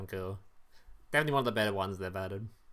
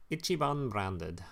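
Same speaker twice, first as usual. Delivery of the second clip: lightly put-on Japanese accent, a bit slow; slightly drawn-out imitation of a Japanese accent; mock Japanese voice; 3 semitones lower, 3 dB quieter, slower than usual. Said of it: "you know, Japanese voice".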